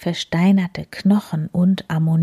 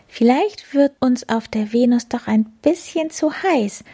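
hohe, verträumte Katzenstimme; erklär es hoch und träumerisch; Plapperkatze; 5 semitones higher than usual. Acted. Die Plapperkatze überlegte. (verträumt erklärende Katzenstimme)

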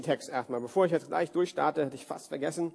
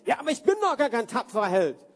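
higher, louder indignant protest; protesting Gideon; 5 semitones higher, 4 dB louder than usual. Acted. Gideon protesting to God that he is no hero, indignant. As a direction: push back as if you can't believe it. Pastor voices Gideon objecting.

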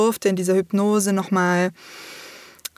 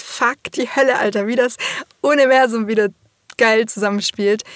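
excited; 2 semitones higher, 3 dB louder than usual. Real, not acted. Excited about solstice coincidence.

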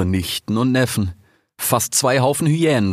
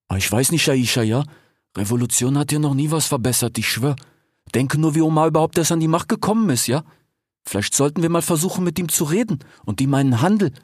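higher, quick, reasoning little fox voice; hesitant fox Fennec; 7 semitones higher than usual. A narrator's reading. Fennec argues against revolution, high doubtful voice. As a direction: plead for talking, voice pitched up.

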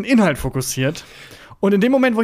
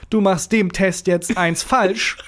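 slow, choppy broken German; slow, halting mock street German; slower than usual. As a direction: mimic a clumsy broken-German tough guy. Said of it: "wie du in deiner Sprache sagen würdest".

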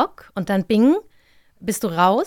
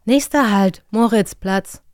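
Ansagestimme; 4 dB louder than usual. Retold or imitated. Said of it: "K-I-Moment".

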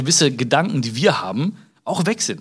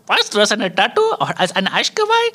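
freaking-out father; 7 semitones higher than usual. Retold or imitated. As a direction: play the dad losing it over a tattoo. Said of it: "mein Vater rastet diese aus so".

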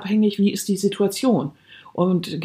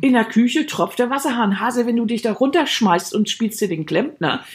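feigned innocence; 3 semitones higher than usual. Acted. Wife to husband about the dripping tap, playing innocent. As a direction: act as if you never meant anything. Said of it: "in Unschuld wiegen und sagst".

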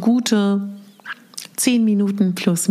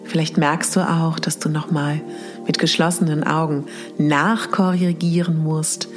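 sleep story narrator. Acted. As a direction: breathe it out gently, long pauses. Leads mirror meditation exercise.

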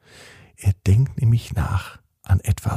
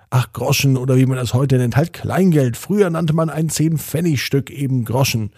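mild scolding; 2 semitones higher than usual. Acted. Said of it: "schimpfte Herr Widinski ein klein wenig".

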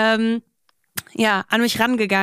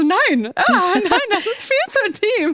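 laughing refusal; 11 semitones higher than usual. Retold or imitated. Retelling shocked refusal.

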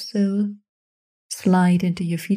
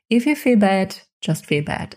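ordinary talk

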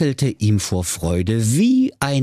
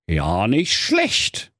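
unimpressed web designer; much slower than usual. Acted. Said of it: "sagte da der Lars Lutz Loderhose".

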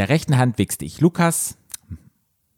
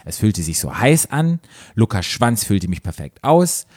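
measured read-aloud narration; story narration. A narrator's reading. Host reading a story to co-host, measured narration.

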